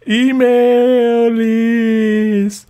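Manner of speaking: very slow, stretched mock read; mocking drawl. Reading the commenter's taunt aloud, drawn out slowly. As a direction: drag each word out in mockery. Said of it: "you have to do the side laugh".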